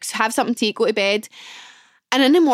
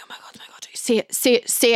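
nervous whisper. Retold or imitated. Nervous self-talk before telling mum.

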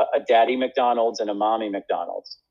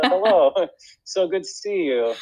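hammed-up Russian accent, higher, with a laugh; Yakov Smirnoff accent; 8 semitones higher than usual. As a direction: greet him warmly in a thick Russian accent. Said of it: "I was essentially doing Yakov Smirnoff".

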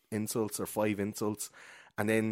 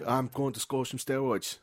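put-on Swedish accent; 3 semitones higher than usual. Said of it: "He goes like".

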